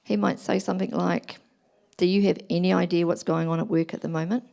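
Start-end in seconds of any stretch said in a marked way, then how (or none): 2.0-4.4 husband pushing back, mildly defensive; a tired man's light defensive retort. Retold or imitated. Husband home from work, mildly defensive toward his wife. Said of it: "That would be him being defensive".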